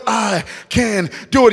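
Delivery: mantra now shouted; full voice self-belief; growing to a shout; loud inner voice. Retold or imitated. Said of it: "get louder and louder".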